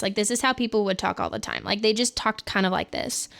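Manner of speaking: put-on Clueless-style Valley Girl accent; old Valley Girl accent. Shown as a demonstration. Streamer showing how people used to talk, Valley Girl accent. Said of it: "be like this".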